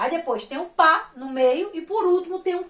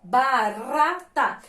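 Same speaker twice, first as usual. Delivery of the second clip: "barata" very slow, in three separate syllables; 2 semitones lower, much slower than usual. Shown as a demonstration. Teacher showing the weak middle syllable, slow and separated. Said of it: "a sílaba do meio é fraquinha".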